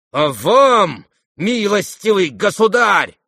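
loud, high, indignant address; angry shout. A narrator's reading. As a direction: shout it at an unwelcome guest. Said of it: "крикнул он". (возмущённый крик)

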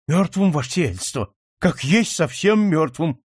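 ordinary delivery

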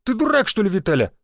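high, startled cry; shocked yelp. Acted. Hunter shoved in the ribs by his friend, startled yelp. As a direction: jolt up in surprise on «Ты дурак».

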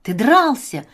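excited, eager questioning; admiring. Acted. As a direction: ask it full of wonder. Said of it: "восхищённо переспрашивает Вася".

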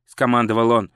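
ordinary delivery

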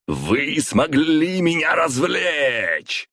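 slow, high menacing villain roar; gloating roar of a possessed emperor. A narrator's reading. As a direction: savor each word like a gloating tyrant. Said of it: "проревел Константин".

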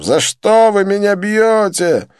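high, loud, slow wail; pleading cry. A narrator's reading. Joseph pleads with his beaters, wailing. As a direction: plead why through the blows.

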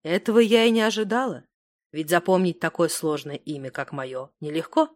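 ordinary delivery, nothing marked

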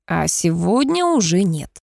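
ordinary delivery

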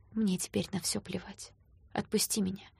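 soft, hopeless plea; broken whisper. Acted. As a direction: beg him to let go, barely audible. Heroine begs him, near tears.

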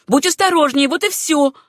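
a stubborn repeated threat; repeated warning. A narrator's reading. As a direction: hit the warning again harder. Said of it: "повторила та".

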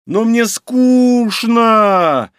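loud, high, very slow drawn-out moan; moaning whine. Acted. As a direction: wail it after him as he leaves. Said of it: "летел мне в спину её стон".

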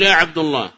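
"عبد" with a -u ending; wrong damma. Retold or imitated. Teacher quotes some brothers' mistake, "عبد" said abdu. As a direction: say "عبد الله" as Abdullah. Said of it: "هذا لحن لا يصلح".

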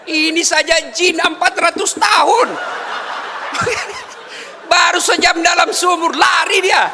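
high, loud laughing shout; shouted punchline. Real, not acted. Preacher shouts the joke's end to the mothers, high and loud. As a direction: belt out the punchline to the crowd.

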